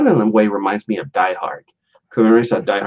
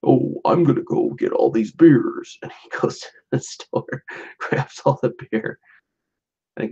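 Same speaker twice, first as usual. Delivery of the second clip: mock secretive whisper; whispered aside; 5 semitones higher than usual. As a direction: whisper like a thief sneaking beer. Hushed mock plot.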